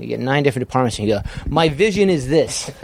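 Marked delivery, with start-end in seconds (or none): 1.5-2.7 slow, higher, grandiose pronouncement; lofty mocking director voice; mock pretentious director. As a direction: ham up a self-important auteur. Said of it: "You just don't go and pitch".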